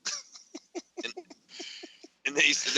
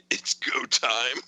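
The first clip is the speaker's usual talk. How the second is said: whisper; much slower than usual. Retold or imitated. Whispered text punchline.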